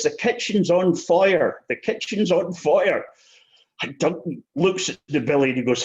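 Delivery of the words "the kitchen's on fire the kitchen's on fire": higher, slow mock alarm at a kitchen fire; alarmed wife. Wife sticks her head round the door warning of fire, higher, slow mock alarm. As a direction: imitate a wife raising the alarm, slowly. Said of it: "and she says".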